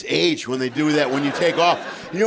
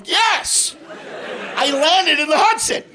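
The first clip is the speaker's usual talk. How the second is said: put-on drunk old pilot; 10 semitones higher, slower than usual.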